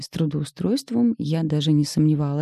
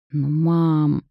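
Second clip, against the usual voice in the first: drawn-out whine; 3 dB louder than usual. Acted. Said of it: "протянула я".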